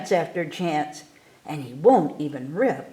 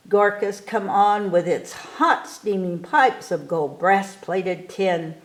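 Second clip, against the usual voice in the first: plain reading voice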